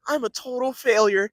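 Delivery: loud, drawn-out anime self-loathing; slow, high cry of anime despair; Deku voice. Acted. Mock anime dubbing for a friend, overdramatic Deku voice. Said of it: "like, the Deku voice".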